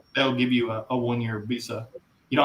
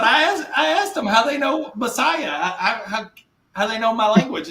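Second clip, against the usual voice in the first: high, laughing, slower retelling; wife laughing as she retells; quoting wife; 9 semitones higher, 4 dB louder, slower than usual. Retold or imitated. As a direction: giggle through the quoted question. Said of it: "She said".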